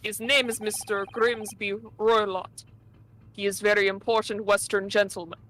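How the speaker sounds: put-on thick Russian accent, dropped articles. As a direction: play a gruff Russian steward. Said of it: "Russian accent".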